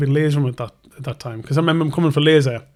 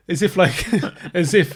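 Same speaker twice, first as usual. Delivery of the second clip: scoffing laugh through the words; mocking laugh; 3 semitones higher than usual. Client scoffs at being asked to pay, laughing mockery. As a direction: laugh it off like the idea is absurd. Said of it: "He's like".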